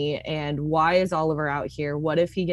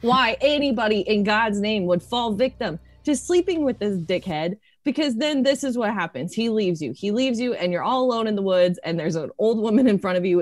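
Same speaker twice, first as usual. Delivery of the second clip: higher, louder, spiralling outpouring; acted overwhelm, words tumbling out and building; overwhelmed rant; 5 semitones higher, 4 dB louder than usual. Overwhelmed character's tearful rant.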